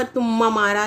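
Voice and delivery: तुम्मा मारा, a stumbling garble of तुम्हारा; lisping stumble. Shown as a demonstration. Teacher demonstrates a stumble on तुम्हारा. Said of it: "तुतलाहट में".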